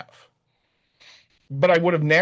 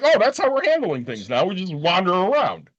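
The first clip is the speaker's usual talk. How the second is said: sarcastic; 4 semitones higher than usual. Retold or imitated. Sarcastic retort to vague directions.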